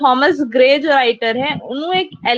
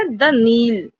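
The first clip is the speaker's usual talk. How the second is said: "the Nile" with "Nile" held long after "the"; stress on Nile; much slower than usual. Shown as a demonstration. Teacher confirming the iambic example, stress on "Nile". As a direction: lean on "Nile", not on "the". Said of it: "इसीलिए एन पे stress है".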